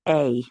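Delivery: "a" said as a full "ay", set apart; stressed "a", pronounced like the letter. Shown as a demonstration. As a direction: lean on "a" as its own word. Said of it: "stressing the word a".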